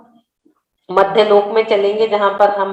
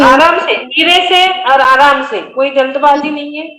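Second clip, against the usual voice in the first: interrupting correction; 3 semitones higher, 3 dB louder than usual. Real, not acted. Interrupts student reciting too fast.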